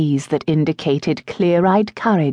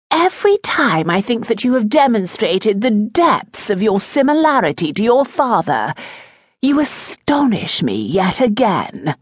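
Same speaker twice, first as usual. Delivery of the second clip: lightly voiced disapproving mother, higher pitch; a hint of a cutting aristocratic mother; Lady Dibbleshire, mother; 6 semitones higher than usual. A narrator's reading. Mother scolding her son Howard, lightly voiced and higher.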